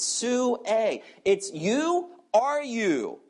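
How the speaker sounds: "Sue a" and "you" each pressed with stress; emphatic stress on "you". Shown as a demonstration. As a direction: hammer home "you", are you. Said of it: "the question is emphatic".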